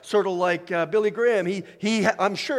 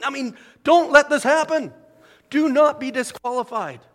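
higher and louder, pressing the plea home; Paul's urgent warning; 7 semitones higher, 5 dB louder than usual. Retold or imitated. Paul warning believers not to be disqualified, urgent and louder. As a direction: voice Paul begging them not to lose. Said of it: "And Paul's going".

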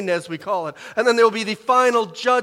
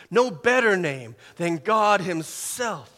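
ordinary delivery

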